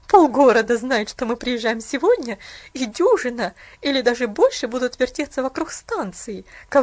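loud, bitter complaint; bitter aunt. Acted. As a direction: rant loudly about the gossips. Aunt's bitter loud rant.

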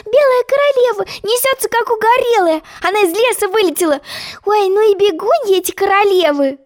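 very high, thrilled little voice; excited Alice. A narrator's reading. Alice watching the White Queen race, thrilled. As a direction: exclaim in wonder, all on a high pitch. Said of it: "крикнула она восторженно".

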